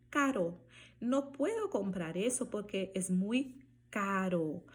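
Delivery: Spanish CARO with one light tap and final O; single tapped R. Shown as a demonstration. Teacher modelling R mid-word, tapped R in caro. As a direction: tap the R in caro, keep the O open. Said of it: "ela fica igual ao português".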